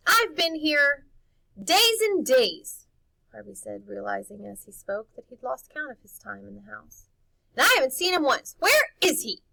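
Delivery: put-on boy demanding answers from the housekeeper; indignant demand. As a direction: push her for the truth. Harvey goading the housekeeper.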